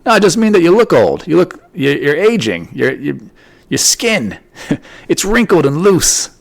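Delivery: mock husband insulting wife. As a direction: play it as a fake-innocent jab. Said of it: "Imagine if I said that to my wife".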